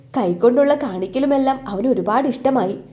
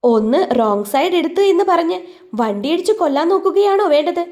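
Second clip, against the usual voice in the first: higher, louder heated question; indignant challenge; 6 semitones higher, 3 dB louder than usual. Acted. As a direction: demand an answer in anger. Girl argues with driver. (ദേഷ്യത്തോടെ ചോദ്യം)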